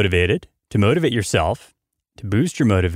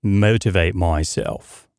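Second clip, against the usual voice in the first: lightly done British accent, not fully convincing. Shown as a demonstration. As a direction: try on a British accent for fun. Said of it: "How do you like my British accent?".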